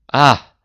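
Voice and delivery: narrated cry. A narrator's reading. Adele cries out before fleeing, a loud cry. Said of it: "gridò".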